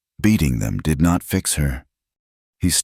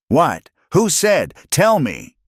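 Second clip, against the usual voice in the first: high, urgent demands; 13 semitones higher, slower than usual. Acted. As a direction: press her hard for an answer. Urgent demand to know who.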